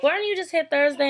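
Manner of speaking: high-pitched surprised question; surprised nurse. Retold or imitated. Nurse surprised to see her back.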